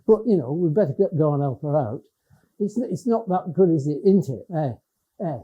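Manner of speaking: casual Lake District chat; Cumbrian dialect. Shown as a demonstration. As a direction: chat like a local among mates, Cumbrian accent. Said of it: "I'd speak like that when I'm with them".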